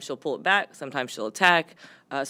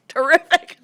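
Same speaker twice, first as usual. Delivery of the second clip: sarcastic; 11 dB louder than usual. Retold or imitated. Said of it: "And I'm just like".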